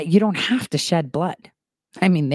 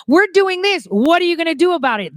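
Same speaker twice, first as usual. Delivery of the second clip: mocking taunt; 9 semitones higher, faster than usual. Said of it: "they say things like".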